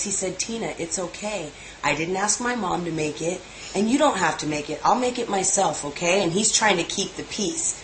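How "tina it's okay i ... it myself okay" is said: mildly calm, placating quote; calmest voice. Retold or imitated. Elijah trying to keep the peace with Tina, calm. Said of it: "said in the calmest, you ask her, the calmest voice".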